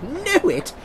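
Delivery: high, loud astonished question; incredulous at the question. Acted. Scrooge astonished.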